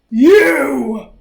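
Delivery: wolf springing his trap on Granny; cried out. Acted. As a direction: pounce on the word. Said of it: "cried the wolf".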